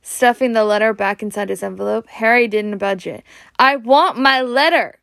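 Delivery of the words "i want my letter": a louder, higher demand; shout. Acted. Harry shouting at his uncle for his letter. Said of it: "he shouted".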